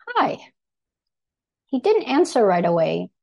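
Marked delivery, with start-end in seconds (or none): 0.1-0.4 high-pitched little hi; friendly retold greeting. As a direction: greet a stranger in a much higher voice.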